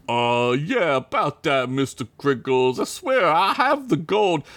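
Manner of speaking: lightly voiced nervous debtor; nervous Joey. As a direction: stammer out an excuse. Joey pleads with his boss.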